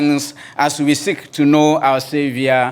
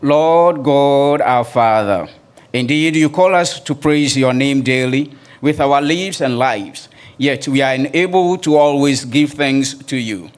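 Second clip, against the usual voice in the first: opening prayer. Acted. Pastor praying aloud for the congregation, earnest and reverent. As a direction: call on God with reverent weight.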